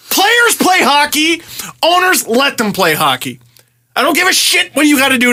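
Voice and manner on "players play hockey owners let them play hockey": exasperated yell. Real, not acted. Exasperated rant about lockout.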